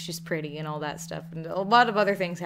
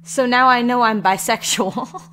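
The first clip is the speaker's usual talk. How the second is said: slow, loud mock realization; a teen boy suddenly realizing something, hammed up; mock revelation; 5 semitones higher, 10 dB louder, slower than usual. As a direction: play it as a sudden comic epiphany. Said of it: "Eric just responds in his mind like".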